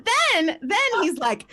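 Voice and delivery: ordinary talk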